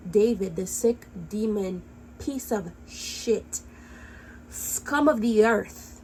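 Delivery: slow contemptuous insult. Real, not acted. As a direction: spit the words out slowly in disgust. Furious insult of the accused.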